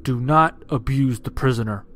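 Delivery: loud, stern officer's order; angry young lieutenant reprimanding a corporal; spat reprimand. A narrator's reading. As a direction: spit the order out with force. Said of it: "spat the young lieutenant".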